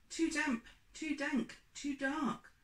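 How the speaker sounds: a hint of a tiny fussy mouse. Mouse grumbling about the cave, high squeak.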